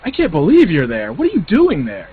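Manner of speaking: whining disbelief. Retold or imitated. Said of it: "I'm whining".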